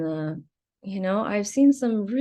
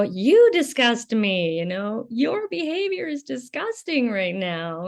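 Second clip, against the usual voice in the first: disgusted confrontation; 3 semitones higher than usual. Pretend. Nanny imagining confronting the parents, disgusted. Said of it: "imagined myself as if I was talking to these parents".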